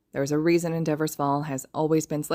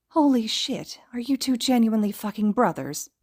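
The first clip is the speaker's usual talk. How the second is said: shocked shout; 6 semitones higher than usual. A narrator's reading. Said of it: "Shigaraki shouts".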